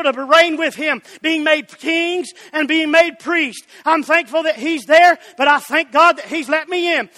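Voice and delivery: driving, emphatic sermon rhythm; fervent preaching. Real, not acted. Preacher promising the church eternal life, fervent preaching. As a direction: press each point home to the congregation.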